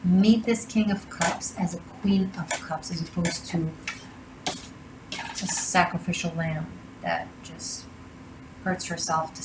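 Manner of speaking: breathy hushed whisper, words barely voiced; whispered advice. Reader whispering tarot advice to the listener, hushed whisper. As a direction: lean in and whisper the guidance close.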